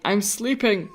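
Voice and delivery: a hint of a grumpy old man. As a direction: grumble like a sleepy old man. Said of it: "he's a grumpy old man, and he'd probably be like".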